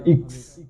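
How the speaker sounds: "ইক্স" said alone as the syllable iks; first syllable shown. Shown as a demonstration. Teacher showing learners the first syllable, demonstrated pronunciation. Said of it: "উচ্চারণ হবে".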